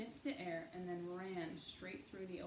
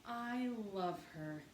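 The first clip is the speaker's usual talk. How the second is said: put-on sweet child's chirp, slow; 3 semitones higher, 4 dB louder, slower than usual. A narrator's reading. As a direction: chirp it like a small child in love with a dog. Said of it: "chirped Honey".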